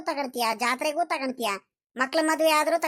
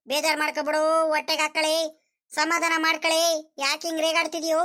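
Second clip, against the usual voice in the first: placating plea; 4 semitones higher than usual. Acted. Husband begs cross wife to calm down, placating. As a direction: plead with her to calm down.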